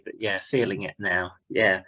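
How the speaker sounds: tired hungover voice; a bit worse for wear, hungover. Real, not acted. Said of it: "I'm a little hungover from last night".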